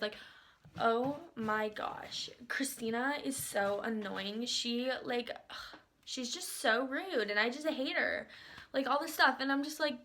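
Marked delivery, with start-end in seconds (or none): 0.8-8.3 slow, drawn-out mock griping; catty gossip. Coworker talking crap about Christina, catty gossip. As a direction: drag out the words like a gossiping coworker. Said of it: "talking crap about the coworkers".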